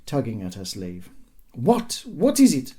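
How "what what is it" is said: high, irritated mother's retort; angry demand. A narrator's reading. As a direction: demand it sharply, pitched right up. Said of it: "she demanded angrily".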